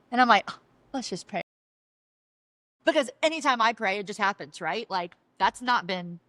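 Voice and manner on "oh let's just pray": soft, mocking echo of a suggestion; cynical mimicry. Wife parrots husband's call to pray, cynically. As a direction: grudgingly parrot it under the voice. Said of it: "So how cynical I was".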